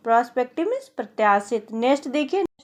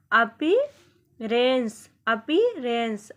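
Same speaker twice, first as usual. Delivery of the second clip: slow, drawn out; much slower than usual. Shown as a demonstration. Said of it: "appearance को हम".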